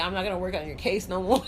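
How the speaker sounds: quoting him while cracking up; laughing through a quote. Retold or imitated. Retelling the guy's words to friends, laughing. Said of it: "He's like".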